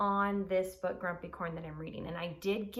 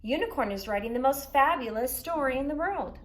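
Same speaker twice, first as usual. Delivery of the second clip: Narwhal's news; 5 semitones higher, 6 dB louder than usual. A narrator's reading. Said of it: "said Narwhal".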